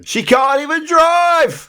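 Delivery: high, loud, slow laughing exclamation; mock outraged quote. Host quoting the sitcom's jibe about Barbara Castle, high and loud. Quoting the show's mocking line.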